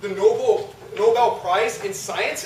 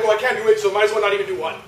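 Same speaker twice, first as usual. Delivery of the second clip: louder, exasperated excuse; exasperated giving up; 7 dB louder, faster than usual. Retold or imitated. Someone skipping prayer out of frustration, loud and exasperated. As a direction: throw up your hands and quit. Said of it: "We're like".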